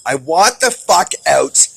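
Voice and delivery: loud, furious repeated yelling; seething and loud, venting real rage; real anger. Real, not acted. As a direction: shout it out, truly fed up. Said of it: "I'm pissed".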